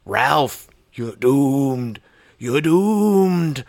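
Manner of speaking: prophet of doom warning, rising; Crazy Ralph. Retold or imitated. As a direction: cry out a doomsday warning. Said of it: "Crazy Ralph".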